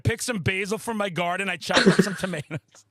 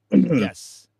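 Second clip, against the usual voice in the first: much lower, louder, fast madman growl; metal horror madman voice; 9 semitones lower, 8 dB louder than usual. Acted. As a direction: bark it out like a horror-movie madman. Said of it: "I will read in Metal Horror Madman voice".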